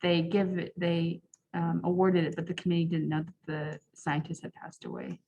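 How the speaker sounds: muffled behind a mask; speaking through a face mask. Real, not acted. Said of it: "people who are talking through masks".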